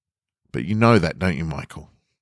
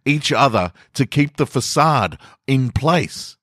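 rallying the room; 6 semitones higher than usual. Acted. Turns to rally the coworkers.

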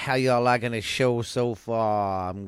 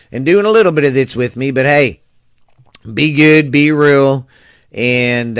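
loud sign-off; 7 dB louder than usual. Real, not acted.

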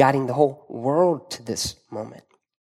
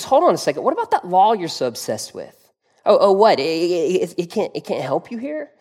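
a touch of mocking, rude sarcasm; mildly taunting, snide tone; snarky Pilate. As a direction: needle them lightly as the sneering governor. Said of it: "he's being kind of rude to them".

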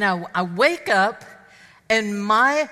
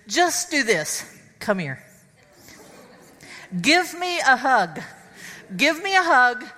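coaching a hug; 2 semitones higher than usual. Retold or imitated. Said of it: "you go kinda like this".

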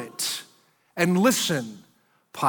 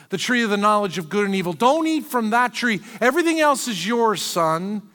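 higher, lightly voiced loving father; generous God; 4 semitones higher than usual. God giving Adam the garden, higher, a lightly voiced fond father. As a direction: offer a son the whole world, lighter and higher.

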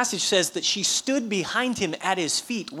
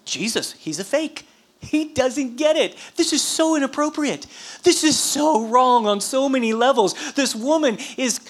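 put-on scandalized complaint; imagined indignant Pharisee; 4 semitones higher than usual. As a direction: fume like an appalled dinner host. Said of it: "he's thinking".

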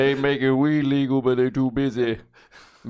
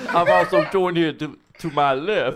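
halting, slurred boxer voice; Rocky. Acted. Host introduces guest on his left, Rocky voice. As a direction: introduce your guest like a punchy fighter. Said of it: "back to sounding like Rocky".

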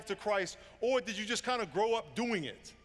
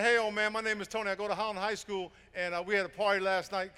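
put-on brash young kid, a bit louder; cocky teen Tony; 2 semitones higher, 4 dB louder than usual. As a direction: show off like a cocky teenager. Preacher voices boastful kid Tony.

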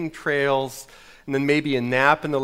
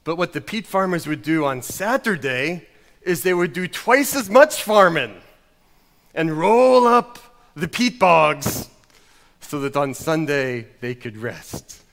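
mock Scottish pastor with weighty pauses; old Scottish pastor. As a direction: preach a parable in a hammy Scottish accent. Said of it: "this old Scottish pastor said".

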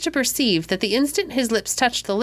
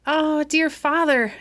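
put-on high, slow, tearful little girl; mildly tearful, drawn-out plea of a small girl; sobbing child; 7 semitones higher, slower than usual. A narrator's reading. Daughter to her father over the ruined roses, tearful. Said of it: "as well as her sobs would let her".

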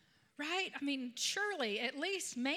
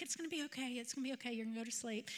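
soft, hushed reassurance; soothing; 5 dB quieter, much faster than usual. Retold or imitated. Grandma holding a crying toddler at bedtime, soothing. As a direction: gently settle a child to sleep.

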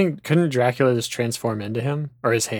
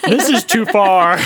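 high, loud mock protest; mock outrage; 7 semitones higher, 7 dB louder than usual. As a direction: cry out in playful indignation. Mock outrage on Jonathan's behalf.

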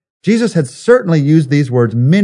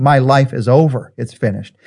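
defeated. Shown as a demonstration. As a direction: say it as if giving up, dropping away. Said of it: "words of defeat and failure".

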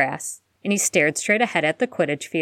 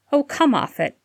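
exasperated huff pitched higher; 8 semitones higher than usual. A narrator's reading. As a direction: brush it off with a huff. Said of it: "Harry huffed".

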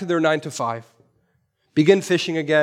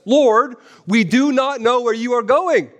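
plaintive protest; 5 semitones higher than usual. Retold or imitated. Voicing Thomas's complaint.

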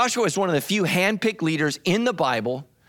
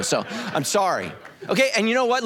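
laughing; 4 semitones higher than usual. Real, not acted. Laughs at own impression.

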